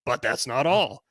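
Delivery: quick barker teaser line; carnival barker. Acted. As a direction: toss it off like a huckster. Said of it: "read this in sort of a carnival barker type voice".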